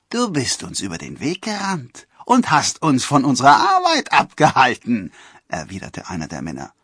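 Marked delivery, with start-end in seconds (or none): 0.1-5.1 loud, high angry retort; accusing. A narrator's reading. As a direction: hurl the accusation back. Forester accuses Robin in quarrel.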